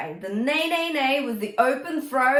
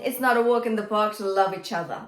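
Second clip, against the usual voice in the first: quick spoken line; faster than usual. Shown as a demonstration. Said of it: "because it's the same melody".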